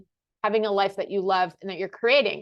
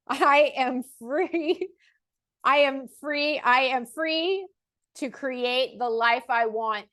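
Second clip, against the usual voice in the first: higher, slow, relishing each I am free; with personality; 4 semitones higher, slower than usual. Shown as a demonstration. Coach demonstrating an affirmation to viewers, playfully emphatic. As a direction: savor the freedom, building it up each time. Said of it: "I clearly wanted to add a little personality".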